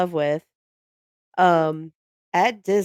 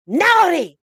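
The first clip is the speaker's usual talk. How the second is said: put-on higher and louder, a gleeful accented verdict; spring the verdict on her in the elf's accent; Tally's naughty verdict; 11 semitones higher, 5 dB louder than usual. The elf checks his list for Ashley, gleeful accented verdict. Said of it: "he's like".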